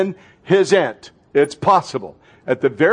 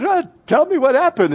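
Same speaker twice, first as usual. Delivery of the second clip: lightly voiced, higher and coaxing; coaxing Jesus; 11 semitones higher than usual. Jesus coaxing the grieving disciples, higher and inviting. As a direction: draw them out gently. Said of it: "He goes".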